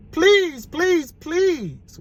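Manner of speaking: high, pleading please; begging. Acted. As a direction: plead with him over and over. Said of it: "we all begged".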